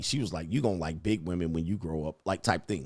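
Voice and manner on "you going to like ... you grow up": mock come-hither, flirtatious, suggestive tone. Retelling what a friend's mother said: imitating a seductive tone. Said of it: "she was saying it in a seductive way".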